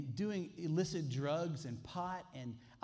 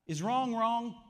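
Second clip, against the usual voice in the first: calls out the question to the room, louder; forceful rhetorical question; loud challenge; 5 semitones higher, 6 dB louder, slower than usual. Real, not acted. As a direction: demand an answer from the pews. Preacher challenging the congregation.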